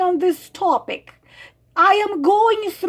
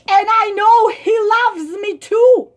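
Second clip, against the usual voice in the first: raised, louder mimic; mock lovesick voice; 4 semitones higher, 4 dB louder than usual. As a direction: sing her line back mockingly. Mock voice of writer.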